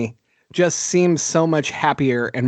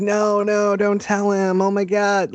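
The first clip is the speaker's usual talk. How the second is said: mock freaking out; 4 semitones higher than usual. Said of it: "Matthew Lillard's character's freaking out".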